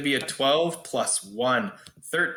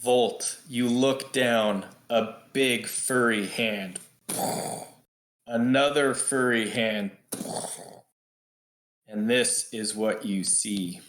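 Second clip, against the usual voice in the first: game master's scene setting; 3 semitones lower than usual. Acted. Game master shows Volt what climbs out of the portal, suspenseful narration. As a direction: draw out each phrase for suspense.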